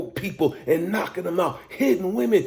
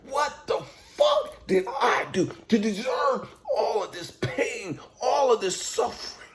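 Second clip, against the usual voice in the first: anguished outcry; 5 semitones higher than usual. Real, not acted. Crying out to God.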